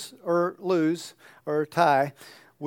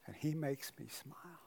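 imagined heavenly voice; 11 dB quieter than usual. Acted. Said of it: "some voice saying".

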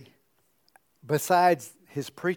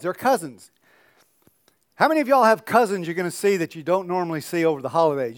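ordinary delivery

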